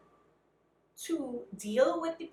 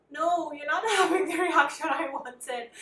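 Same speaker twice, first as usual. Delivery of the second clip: higher, louder mock complaint; exasperated retelling, pitched up and pushed; retold exasperated protest; 4 semitones higher, 5 dB louder than usual. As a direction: protest as if acting out an argument. Retold complaint to excited husband.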